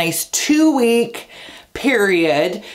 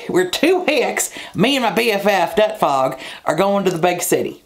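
mock Southern accent. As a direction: slip into a jokey Southern twang. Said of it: "I just went into a Southern accent".

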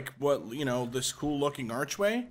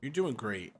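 patronizing; 4 semitones lower, 4 dB quieter, slower than usual. Real, not acted. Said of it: "Don't you sound so patronizing".

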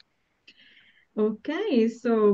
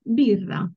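"birra" hit loudly on the I; stress on I; 5 dB louder than usual. Shown as a demonstration. Teacher pointing out the accent, strong I in "birra". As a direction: punch the first vowel I in "birra". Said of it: "the accent is on the I".

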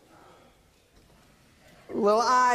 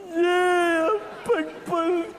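blubbering; much slower than usual. Acted. Self-pitying about his broken marriage.

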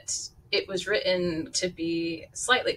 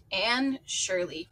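reluctant falter; slower than usual. Acted. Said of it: "reluctantly faltered forth".

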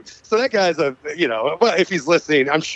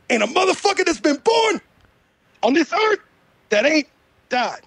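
high, shouted rapper impression; mock-preachy rapper with dramatic pauses; 9 semitones higher than usual. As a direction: proclaim it like a rapper, phrase by phrase. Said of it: "the only impression I can fucking do".

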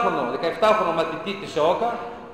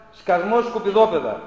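a retold shout, louder, with "Σκασμός" lifted at the end; mock witch yell; 4 dB louder, slower than usual. Speaker quoting the schoolbook witch at carol singers, mock yell. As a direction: bark "Σκασμός, σκουπιδόπεδα" like the witch on her balcony. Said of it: "βγαίνει στο μπαλκόνι και φωνάζει".

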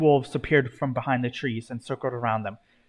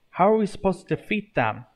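high-pitched yelled question; storybook yell, pitch well up; 7 semitones higher than usual. A narrator's reading. Rage asks the others facing the undead, yelling. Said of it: "Rage yelled".

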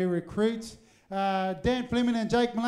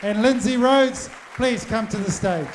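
calling out to the room; 3 semitones higher, 6 dB louder, slower than usual. Real, not acted. MC calls couple to stage.

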